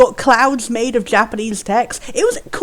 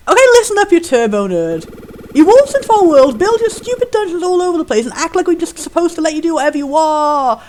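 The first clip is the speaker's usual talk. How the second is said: angry taunt. Acted. Reading the pony's angry taunt.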